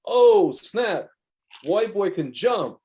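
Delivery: high, loud "oh snap", then slowing to a drawn-out finish; mock excited yell. Kid on the court yelling at the rebound, excited. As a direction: play the kid hyping up the rebound, amazed.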